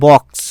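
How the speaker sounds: "বক্স" ending in a crisp k+s cluster; joined k-s ending. Shown as a demonstration. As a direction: model "বক্স" clearly, k running into s. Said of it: "ভালো করে উচ্চারণটা শুনবে".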